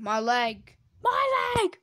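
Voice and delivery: rising high wail on the second leg; mock crying baby. Baby Bubbles crying over her leg, mock wail. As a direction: whine it like a hurt baby.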